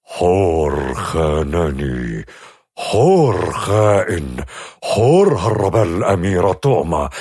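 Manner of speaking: slow, trembling furious king; shaking with anger. Acted. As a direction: spit it out slowly, shaking with rage. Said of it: "بصوت يرتجف من الغضب".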